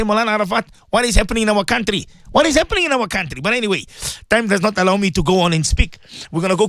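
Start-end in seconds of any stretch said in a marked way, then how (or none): 0.0-3.4 imagined shocked listener. Pretend. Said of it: "you say".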